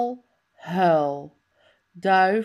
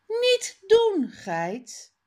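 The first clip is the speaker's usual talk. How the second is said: mock scolding; 10 semitones higher than usual. Character scolds the goat.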